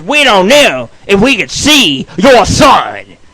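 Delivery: loud and slow, each word pushed; mock shouted refusal. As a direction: hammer it like an annoyed nurse. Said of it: "She says".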